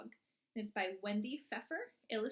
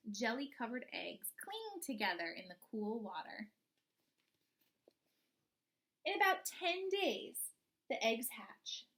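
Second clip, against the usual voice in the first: put-on slow, expressive read-aloud for young children; storybook reading; 4 dB louder than usual. Teacher reading a frog book to her class, storybook voice.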